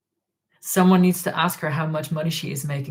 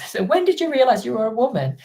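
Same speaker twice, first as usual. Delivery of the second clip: higher-pitched mock interview question; 7 semitones higher than usual. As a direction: put the imagined question to her in a higher voice. Acts out her imagined question.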